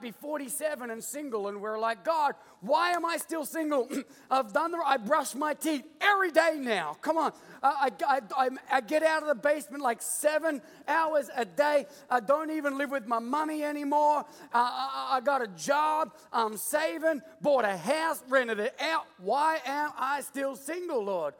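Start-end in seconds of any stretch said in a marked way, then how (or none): 2.0-7.0 hammed-up pleading, higher and louder; fired-up complaint to God. Preacher plays a single man questioning God, mock exasperation. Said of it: "so fired up and disappointed or angry". 7.0-21.3 hammed-up pleading, higher and louder; fired-up complaint to God. Preacher plays a single man questioning God, mock exasperation. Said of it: "disappointed or angry at God".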